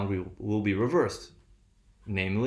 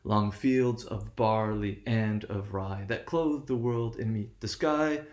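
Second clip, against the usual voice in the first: slow, measured poetry reading with a lilting beat; a slow sing-song recital of the poem. Shown as a demonstration. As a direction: read it like verse, letting the stresses alternate. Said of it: "And that's Alfred Lord Tennyson".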